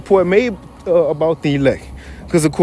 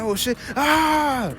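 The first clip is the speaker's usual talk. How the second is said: a high startled mock yelp; high scared yelp; 7 semitones higher, 6 dB quieter, much slower than usual. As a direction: play the scared elders, half-joking. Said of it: "They probably got scared".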